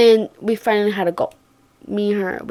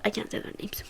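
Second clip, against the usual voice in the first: whispered aside; secretive whisper; 17 dB quieter than usual. Real, not acted. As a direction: hush it so nobody hears. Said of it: "unvoiced whisper".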